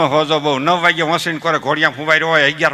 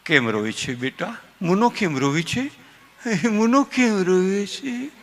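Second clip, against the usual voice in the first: mother soothing; 5 dB quieter, slower than usual. Retold or imitated. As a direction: coo over the baby like a doting mother. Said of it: "એની mummy કે".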